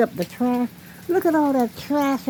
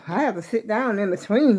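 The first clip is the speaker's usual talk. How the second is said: out of breath. Real, not acted. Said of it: "I get so out of breath".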